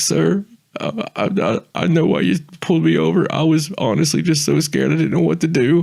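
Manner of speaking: mock-scared, stammering, high, shaky pleading near tears. Retelling talking to the officer who pulled them over, retelling tearful, shaky pleading. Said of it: "I change my voice pattern".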